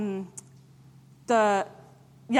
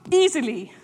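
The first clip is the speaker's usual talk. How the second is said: easily in a broad New Zealand Kiwi accent; playful Kiwi accent on one word. Shown as a demonstration. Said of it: "In a Kiwi accent".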